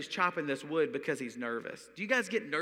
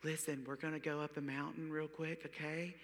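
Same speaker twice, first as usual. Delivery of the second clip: God's voice; 8 dB quieter than usual. Retold or imitated. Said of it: "like, God, when he speaks".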